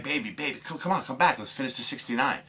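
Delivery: high-pitched, urgent coaxing; pleading. Retold or imitated. Woman calls her leaving lover back, high pleading.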